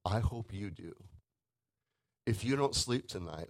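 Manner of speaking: normal talking voice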